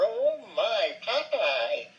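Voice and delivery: high, wailing cartoon damsel; fluttery vintage cartoon woman; Olive Oyl. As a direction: call out in a high, dithering, drawn-out voice. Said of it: "it's like olive oil in the nineteen thirties".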